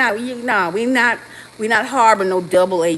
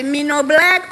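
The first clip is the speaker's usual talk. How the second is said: mock African accent; 5 semitones higher, 5 dB louder than usual. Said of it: "You wanna say".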